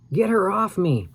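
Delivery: high, frantic cry for help; panicked plea. A narrator's reading. Al begs Sam to pull the ghost off: frantic panicked cry. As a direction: beg your friend to save you.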